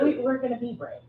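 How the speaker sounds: soft, stammering "We, we're gonna be brave"; timid mock quote. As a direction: mimic an unsure woman, softly. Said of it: "We say".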